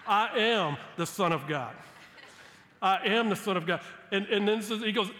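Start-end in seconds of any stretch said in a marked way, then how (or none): 0.1-3.8 louder, stress on "am" each time; firm declaration. Pretend. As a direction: plant "am" firmly, settle the question. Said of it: "You almost just wish he would go".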